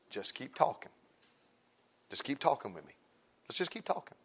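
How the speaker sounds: hushed, sly urging; conspiratorial boy. Retold or imitated. Boy egging on his friend at bedtime, conspiratorial and hushed.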